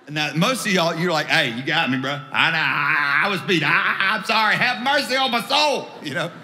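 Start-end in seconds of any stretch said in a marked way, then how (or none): 1.3-5.9 hammed-up begging, climbing in pitch; comic confession building to a plea; mock pleading. Driver begging officer for mercy.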